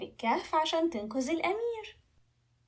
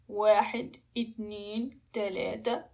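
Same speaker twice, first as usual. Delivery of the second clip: lower, separated counts; measured countdown; 3 semitones lower, slower than usual. Acted. Dragon counts before flying round the world, measured. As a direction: count down with a pause on each.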